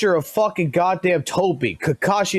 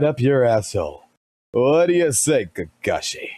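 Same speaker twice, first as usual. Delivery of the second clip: Guy Sensei voice; 6 semitones lower than usual. Retold or imitated. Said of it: "I could do the Guy Sensei voice".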